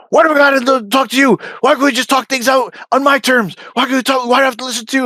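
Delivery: high squeaky complaining; mock whiny refusal. Mocking Danny's refusal to meet, high whiny voice. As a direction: whine like a stubborn child.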